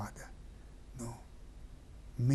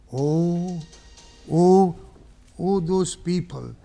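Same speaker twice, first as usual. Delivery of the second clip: raised, calling-out address; loud appeal; 5 semitones higher, 9 dB louder, slower than usual. Acted. Hussein crying out to the enemy soldiers. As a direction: call out over the army.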